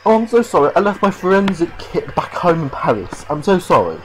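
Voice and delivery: high, loud, hammed-up sorry act; mock apology. Mocking the detective's excuses.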